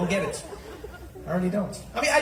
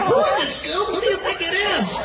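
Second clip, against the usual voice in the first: high-pitched, excited cartoon sleuth; eager mystery-gang question, pitched right up; cartoon gang member; 10 semitones higher, 4 dB louder than usual. Voicing the Scooby-Doo gang puzzling.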